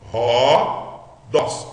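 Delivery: "Rodós" said with an aspirated h, like English house; rough breathing as h. Shown as a demonstration. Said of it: "pronuncia-se, translitera-se". ("Rodós" com H aspirado do inglês)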